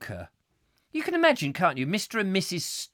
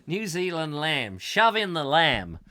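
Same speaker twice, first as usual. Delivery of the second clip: put-on dreadful New Zealand accent. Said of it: "that's a dreadful New Zealand accent".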